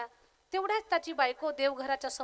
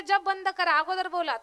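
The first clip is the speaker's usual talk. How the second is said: higher, louder command; insistent scolding; 3 semitones higher, 6 dB louder than usual. Acted. Wife demanding he stop japa, insistent scolding. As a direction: cut across his chanting.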